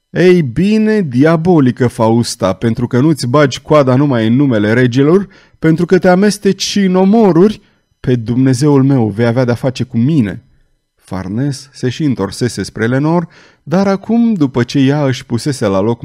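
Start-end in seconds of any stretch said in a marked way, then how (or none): 0.1-10.4 loud, challenging vow; the knight swears revenge, loud; defiant threat. Acted. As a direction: throw down the gauntlet.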